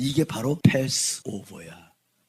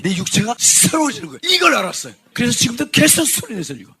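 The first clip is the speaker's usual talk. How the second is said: loud, raised preaching voice; forceful preaching; 4 semitones higher, 6 dB louder than usual. Real, not acted.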